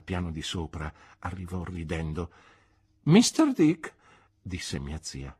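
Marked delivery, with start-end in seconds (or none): 3.0-3.9 high, loud call of his name; sharp address. Acted. Aunt calling Mister Dick to order, sharp loud address. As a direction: snap his name to get his attention.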